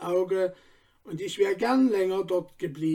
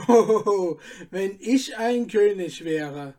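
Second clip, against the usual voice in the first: calling out; 3 dB louder than usual. Acted. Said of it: "rief Stefan".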